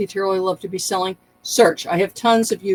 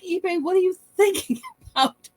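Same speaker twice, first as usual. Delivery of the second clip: exasperated mock question; 11 semitones higher than usual. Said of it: "It's like".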